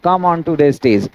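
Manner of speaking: example read out slowly; spaced words for the class; slow dictation. Shown as a demonstration. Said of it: "example read out".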